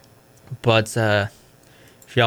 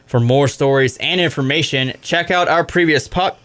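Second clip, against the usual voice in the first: radio sign-off. Acted. Show sign-off.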